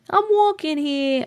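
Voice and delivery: put-on light New York accent, a bit slow. Streamer hamming a mild New York accent for chat. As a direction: toss off a mild New York "I'm walking here". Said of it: "my New York accent slips out".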